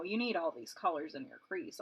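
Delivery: normal talking voice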